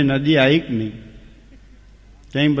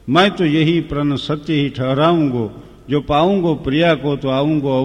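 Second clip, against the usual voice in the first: recited verse. Acted. Storyteller reciting Ram's vow to the audience as verse. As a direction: chant the Hindi verse steadily, line by line.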